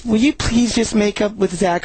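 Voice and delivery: lightly voiced pleading girl; mock girlfriend. Quoting the girlfriend's plea.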